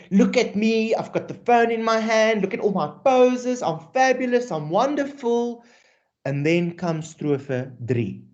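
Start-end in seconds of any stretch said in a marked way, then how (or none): 0.1-5.6 a hint of a vain poser, pitched up; boastful poet voice. Teacher voicing the poet to the class, lightly vain and higher. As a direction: show off like a teen posing for the camera. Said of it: "the poet is telling you".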